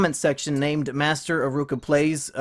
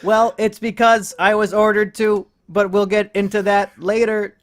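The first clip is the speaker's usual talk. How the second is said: robot voice; 3 semitones higher than usual. Acted. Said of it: "to do this voice".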